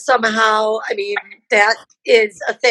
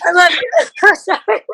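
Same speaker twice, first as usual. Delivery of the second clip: tearful; 6 semitones higher than usual. Real, not acted. Barbie tearful thanks to host.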